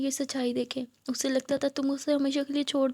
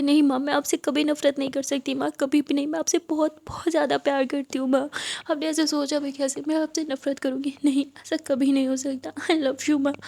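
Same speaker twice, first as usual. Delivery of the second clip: tearful pleading. Acted. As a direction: plead through tears with rising force. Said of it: "बहुत ज़्यादा रोने लगती है".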